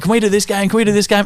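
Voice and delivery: high, pleading kid voice imitated; whiny kids asking for the same game again; pestering kids. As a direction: beg like a bored child, over and over. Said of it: "the kids are like".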